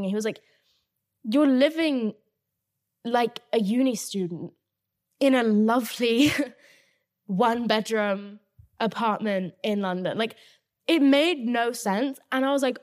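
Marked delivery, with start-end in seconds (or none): 1.2-10.2 quoting a friend through laughter; laughing while quoting. Retold or imitated. Friend mocking the empty flat, retold laughing. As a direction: laugh through the line as you retell it. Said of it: "he was just laughing".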